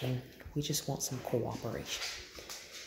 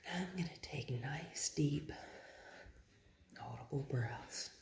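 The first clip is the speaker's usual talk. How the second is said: nice and quiet; 7 dB quieter than usual. Real, not acted. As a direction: space the words out softly, breathing between them. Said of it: "my tone is nice and quiet".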